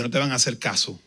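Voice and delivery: the demon mocking the praying preacher. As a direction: sneer it like a gloating demon. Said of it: "burlándose".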